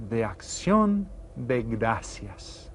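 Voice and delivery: slow, syllable by syllable Spanish "de Acción de Gracias"; careful Spanish. Shown as a demonstration. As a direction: model "Acción" with a clear Spanish ción. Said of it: "teacher models Spanish slowly".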